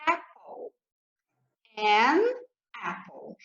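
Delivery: apple said slowly, then an apple; clear English demo. Shown as a demonstration. Teacher modeling apple for students, careful and clear. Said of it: "por exemplo".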